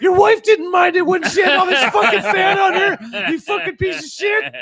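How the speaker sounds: very high, hammed-up yelling; mock furious shout. Imagined comeback to rude driver, mock furious shout. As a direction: shout it high in pretend outrage.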